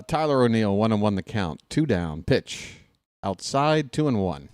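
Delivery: a mild take on a fellow announcer's calm play-by-play; Stefan impression. Announcer calling the count in a hint of his colleague's voice. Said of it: "I even do a Stefan impression".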